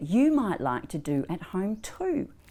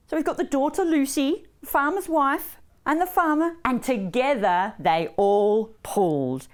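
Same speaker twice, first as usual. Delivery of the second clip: put-on children's storytelling; 5 semitones higher, 3 dB louder than usual. A narrator's reading.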